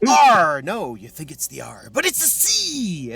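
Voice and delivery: mock know-it-all. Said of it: "everyone's always gonna be like".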